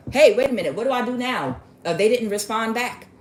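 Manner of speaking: lightly hammed-up anxious questioning; mock worried client. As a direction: act out someone lost for what to do. Acts out anxious man asking coaches.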